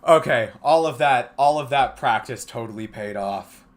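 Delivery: loud, elated, still breathless. Real, not acted. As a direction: celebrate like you just won. Elated after clearing level.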